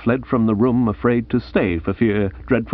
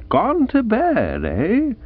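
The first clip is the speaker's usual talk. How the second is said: murmured musingly; 11 semitones higher, slower than usual. A narrator's reading. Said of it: "I murmured musingly".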